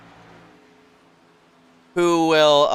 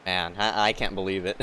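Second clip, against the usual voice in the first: much lower, much softer disbelief; stunned quiet; 16 dB quieter than usual. Real, not acted. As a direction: barely say it, stunned. Stunned after bad news.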